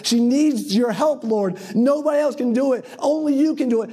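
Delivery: high, urgent appeal; insistent pleading. Retold or imitated. Mother begging the Lord's help, insistent pleading. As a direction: press the plea as if nobody else can help.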